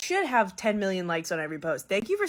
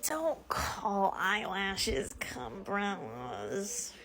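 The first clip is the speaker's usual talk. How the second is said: whisper; 11 dB quieter, much slower than usual. Real, not acted. Whispered comments.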